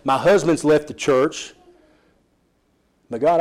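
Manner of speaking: pleading prayer that settles into surrender; spoken prayer. Pretend. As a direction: pray to God in earnest, then let go. Voices a believer's prayer.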